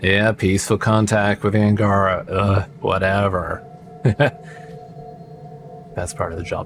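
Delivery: acted bored, flat, unenthused, can't-be-bothered tone. Retelling a character's reply to congratulations: mock-unenthused. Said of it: "You don't sound real enthused about it. He's just like".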